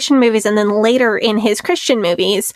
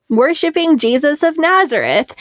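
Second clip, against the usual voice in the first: put-on Southern accent; 4 semitones higher than usual. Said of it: "my best Southern accent moment".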